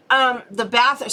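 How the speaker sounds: talking around a cough drop; cough drop in mouth. Real, not acted. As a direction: cough drop in mouth, words slightly thick. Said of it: "I have a cough drop in my mouth".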